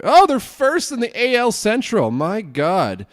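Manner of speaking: real delight at the good news; pleased shock; excited surprise. Real, not acted. Delighted at team standings.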